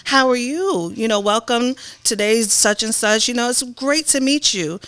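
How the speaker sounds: formal welcoming voice; polished, proper greeting; prim and proper speak. Shown as a demonstration. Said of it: "You hear the difference?".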